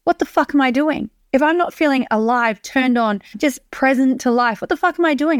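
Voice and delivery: urgent exasperated questioning. Retold or imitated. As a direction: push each question up, pleading with yourself. Quoting own urgent inner thoughts.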